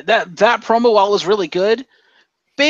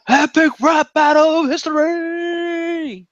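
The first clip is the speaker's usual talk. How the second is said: higher, slow trailer-announcer boom; epic announcer; 11 semitones higher, slower than usual. Acted. Hyping a mock rap battle.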